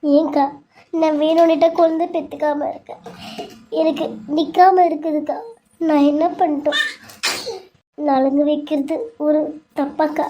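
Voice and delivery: crying woman confides in her sister-in-law; tearful pleading. Acted. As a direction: voice full of tears, pouring out grief. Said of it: "அழாத".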